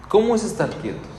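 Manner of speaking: high, lifted question; a lifted, wondering question; rhetorical question. Real, not acted. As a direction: ask it up high, inviting.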